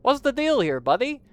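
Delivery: high, loud, pushy; brash confrontation. Acted. Vix's brother confronting the broker, high and loud. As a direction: demand answers from a stranger.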